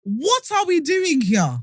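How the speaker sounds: high, slow, drawn-out exasperated question; mock exasperation. Jesus questions God's aftercare plan, mock exasperated. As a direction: draw it out in comic despair.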